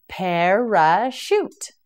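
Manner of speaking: Parachute drawn out slowly, syllable by syllable; slow model word. Shown as a demonstration. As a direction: stretch out Parachute like a teacher modelling it. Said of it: "teacher models word slowly".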